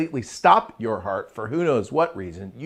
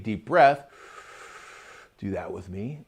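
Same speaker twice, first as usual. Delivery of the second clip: usual speaking voice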